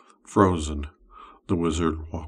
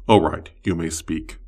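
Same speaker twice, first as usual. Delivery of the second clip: louder, possessive summoner speaking; wizard's voice; 6 dB louder than usual. Acted. Wizard claiming his summoned slave, louder possessive voice. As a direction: claim the summoned one as your own. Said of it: "he says".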